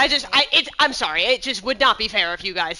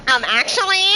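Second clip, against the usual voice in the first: raised, loud pedantic interjection; Nell; 6 semitones higher, 8 dB louder than usual. Retold or imitated. Game master teasing about a player correcting her, mock know-it-all. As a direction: butt in loudly with a correction. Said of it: "Nell would've been like".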